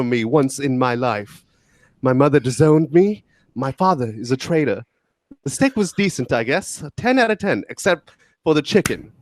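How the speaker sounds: put-on a light British accent reading a review. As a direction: read it in a mock British accent, hamming it up. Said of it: "that review totally needed a British accent".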